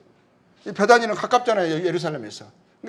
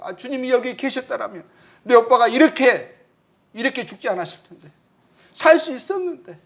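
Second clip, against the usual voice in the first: pleading lament; 6 semitones higher than usual. Retold or imitated. Preacher voicing Mary grieving her dead brother, a pleading lament. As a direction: cry out to the Lord as if it could still be undone.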